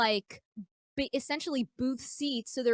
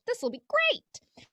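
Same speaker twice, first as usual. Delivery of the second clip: high, slow, drawn-out optimism; mock excitement; 11 semitones higher than usual. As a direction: sing out naive confidence. Acting out naive confidence before disaster.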